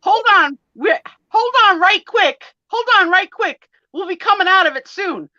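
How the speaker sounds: very high, loud Southern phone voice; hammed-up Southern woman losing signal; Southern accent. Friend on a fading phone call, loud Southern accent.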